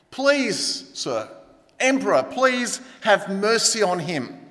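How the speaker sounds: restrained, halting begging. Acted. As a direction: plead for mercy, drawing out the appeal. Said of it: "begged for her son's life".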